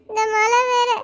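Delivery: crying, scared of the storm. Acted. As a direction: sob through the fear of rain. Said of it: "நீ எதுக்காக அழுகுற?".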